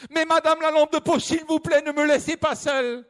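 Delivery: high, eager pleading voice; pleading hiker. Acted. The lost hiker pleading with the flashlight for light. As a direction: beg politely, relieved to find help.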